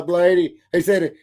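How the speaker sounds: usual speaking voice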